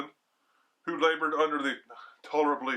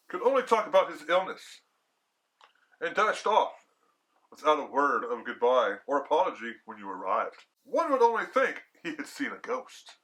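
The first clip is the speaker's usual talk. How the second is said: lively hostess. Acted. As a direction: tell it with amused disbelief. Hostess voiced in reading.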